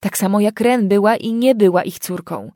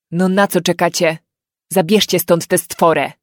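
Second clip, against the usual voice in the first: gruff grumble; 5 dB louder than usual. Acted. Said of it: "burknął ojciec".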